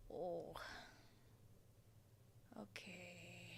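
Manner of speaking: whispered okay. Real, not acted. Resigned after tool fails.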